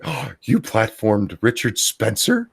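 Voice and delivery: gasping, slow mock indignation; mock upset. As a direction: imitate an upset critic in slow disbelief. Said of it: "getting a little upset".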